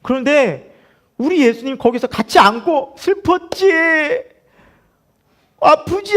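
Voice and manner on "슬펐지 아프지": high, drawn-out words of sympathy; imagined tearful comforting. Retold or imitated. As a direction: comfort a mourner in an acted, high-pitched croon. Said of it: "하면서 막 같이 우셔야 되는데".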